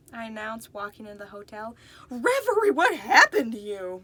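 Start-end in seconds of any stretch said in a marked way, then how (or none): 2.1-4.0 exclaiming. A narrator's reading. Marina shocked at Reverie's state, loud exclaim. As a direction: call out in shock at the sight. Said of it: "Marina exclaimed".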